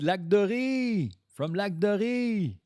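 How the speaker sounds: high, slow, stretched call; long high-pitched holler. Pretend. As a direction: sing out the name, drawn out. Calling out Lac Doré.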